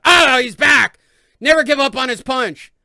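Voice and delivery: high, loud mock cheering; mocking fan cheer. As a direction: ham up the crowd's excitement. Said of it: "everybody jacked off over and went".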